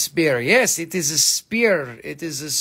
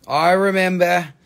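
mock pained; 2 semitones higher, 6 dB louder than usual. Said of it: "No, I'm just kidding".

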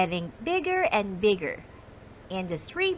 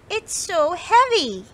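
high, loud little mouse complaint; straining mouse; 8 semitones higher, 7 dB louder than usual. Acted. Molly the mouse complains, straining, that the snowball is heavy. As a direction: push it out like a tiny mouse under a heavy load.

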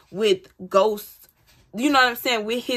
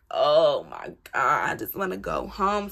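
whiny despair; 7 semitones lower than usual. Retold or imitated. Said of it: "I'm like".

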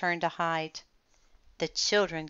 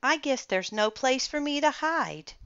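dinosaur crying out; 8 semitones higher than usual. A narrator's reading. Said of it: "cried the dinosaur".

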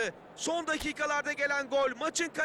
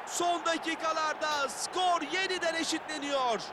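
excited commentator; 3 semitones higher than usual. Acted. Late equaliser in game commentary.

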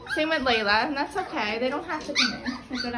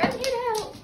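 voicing the dog; 9 semitones higher than usual. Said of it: "He's like".

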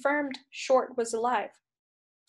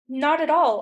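insistent, raised voice; argumentative; 4 semitones higher, 6 dB louder than usual. Acted. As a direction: push back hard. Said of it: "argued Cumulus".

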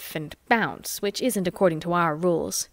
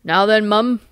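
louder, gruff-sounding cabby; beery cabman; 7 dB louder than usual. A narrator's reading. Cab driver calls down through the roof, beery and loud. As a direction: bark it down through the roof hatch. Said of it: "a beery voice said".

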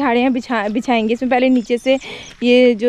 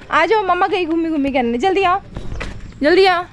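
coaxing call; 6 semitones higher than usual. Real, not acted. Mother urging toddler to hurry after her, high coaxing call.

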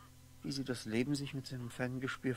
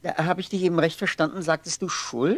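indignant disbelief; 6 semitones higher, 11 dB louder than usual. Acted. Martin shocked by word guilt.

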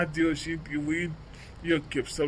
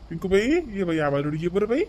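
fond call; 3 semitones higher, 5 dB louder than usual. Acted. Grandfather calls granddaughter.

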